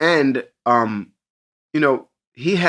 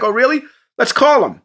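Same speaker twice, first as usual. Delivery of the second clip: imitating Mister Beast; 10 semitones higher, 4 dB louder than usual.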